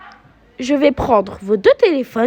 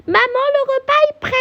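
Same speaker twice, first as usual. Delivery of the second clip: calling out; 10 semitones higher than usual. Acted. Calling mum to dinner.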